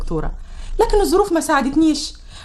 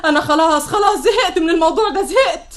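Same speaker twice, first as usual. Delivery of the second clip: nervy outburst; 3 semitones higher than usual. Acted. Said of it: "ما تبقيش عصبية".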